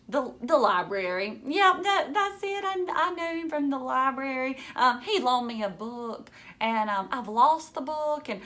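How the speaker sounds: mild flustered stammer; nervous stammer. Acted. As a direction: make up an excuse on the spot. Stammering lie on the phone.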